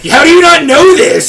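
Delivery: high, loud know-it-all scoff; condescending nerd. Retold or imitated. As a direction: sneer like a nerd at his computer. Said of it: "Some nerd ... being like".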